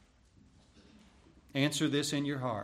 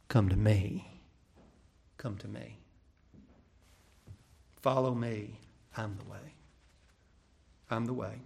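shepherd's gentle call; 5 semitones lower than usual. Acted. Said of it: "Do we hear the voice of the shepherd saying".

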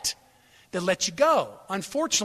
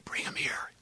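hoarse deathbed whisper; 9 dB quieter than usual. Acted. Dying father calling loved ones closer, whispering. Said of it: "I'm whispering".

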